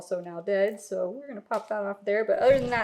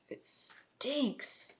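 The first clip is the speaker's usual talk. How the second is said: whispering; 4 semitones higher, 10 dB quieter than usual. Real, not acted. Opening rotten smelly plant.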